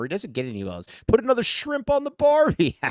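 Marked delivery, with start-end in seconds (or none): 1.1-2.8 high-pitched hammed-up Aussie movie quote; mock Australian accent. Host quoting a comedy film to his co-host, mock Australian. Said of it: "Skier doesn't know Dumb and Dumber".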